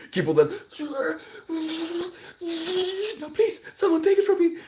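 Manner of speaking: high squeaky laughing protest; pushing the love away through giggles. Real, not acted. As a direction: laugh while begging them to take it back.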